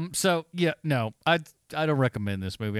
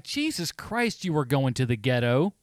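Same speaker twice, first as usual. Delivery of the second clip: mock disbelief. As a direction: react in exaggerated disbelief, stretching the first words. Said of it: "I was just like".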